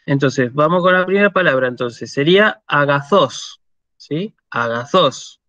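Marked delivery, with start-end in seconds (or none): 2.7-3.6 agazós, stressed on the last syllable -ÓS; Greek model word. Shown as a demonstration. Teacher reading for students to repeat, stress on final ós. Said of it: "leer este acento como un acento, eh, castellano". 4.5-5.4 Agazós with the last syllable -ÓS stressed; Greek model word. Shown as a demonstration. Teacher repeats the first word for students, final-stress model. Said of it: "el acento sobre la ómicron".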